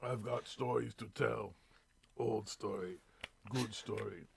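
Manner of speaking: put-on slow, soft mumbling drunk; town drunk. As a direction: slur it like the old town drunk. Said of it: "The town drunk".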